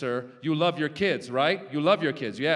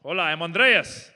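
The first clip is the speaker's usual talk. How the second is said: Andreas impression; 7 dB louder than usual. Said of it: "That's my Andreas impression".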